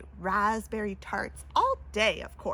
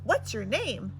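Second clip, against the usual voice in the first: croaky princess; 4 dB louder than usual. Acted. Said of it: "more like a croak".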